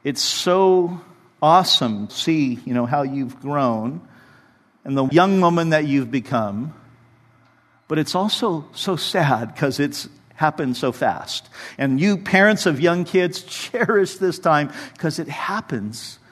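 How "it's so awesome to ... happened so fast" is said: tender card words. Retold or imitated. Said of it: "I wrote in her card".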